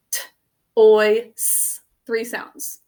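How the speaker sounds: "oy" said out as a clear separate sound, "s" hissed; sounding out phonograms. Shown as a demonstration. Teacher to class, sounds out each phonogram. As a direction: sound out T, oy, s one by one. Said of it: "what sounds do you hear".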